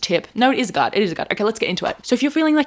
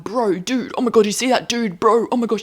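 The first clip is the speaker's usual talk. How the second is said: mock bro-girl slang; 2 semitones higher than usual. To the viewer, imitating her old slangy self, lightly mocking. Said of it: "a girl that's like".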